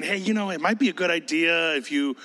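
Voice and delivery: mild, noncommittal suggestion; lightly mock a tentative advice-giver; casual hinting. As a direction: toss it out as an optional idea. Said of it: "He's not hinting".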